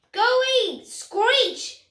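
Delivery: high, loud mock shout with a laugh; parrots shouting. Parrots shouting at Beaky to go away, high and loud. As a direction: shoo him off like rude birds. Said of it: "they shouted".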